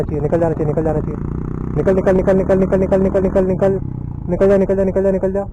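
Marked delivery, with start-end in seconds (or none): 1.8-5.4 rapid-fire repeated urging on one level pitch; urgent urging. Real, not acted. Vlogger willing a rider through a dangerous patch, urgent urging.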